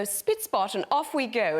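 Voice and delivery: a hint of prim nanny; light crisp Mary Poppins. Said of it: "Do your Mary Poppins voice".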